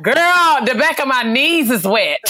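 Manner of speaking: put-on high, laughing girl complaint; laughing mock friend. Teen girl in the hallway complaining about sweat, laughing. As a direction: squeal it through giggles.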